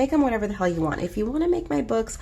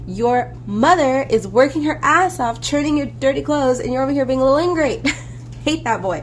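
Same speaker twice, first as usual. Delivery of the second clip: louder, faster scolding rant; 5 semitones higher, 4 dB louder than usual. Retold or imitated. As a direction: tell the ungrateful kid off hard. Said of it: "I'm like".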